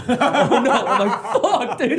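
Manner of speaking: loud, high-pitched comic dread; mock panic. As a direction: imitate your own panicked reaction, hammed up. Reenacts dread at dad's threat.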